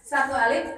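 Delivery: "Satu alif" counted out like a tajwid beat; counting like tajwid. Shown as a demonstration. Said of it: "Hmm, tajwid". ("Satu alif" diucapkan seperti hitungan tajwid)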